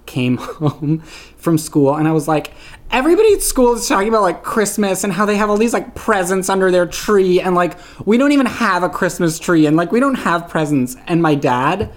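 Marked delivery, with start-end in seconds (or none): 2.9-11.0 put-on high-pitched, rushed childish whine easing off; complaining kid. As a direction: rattle off a kid's breathless grievance to a parent. Voicing childhood self complaining to dad.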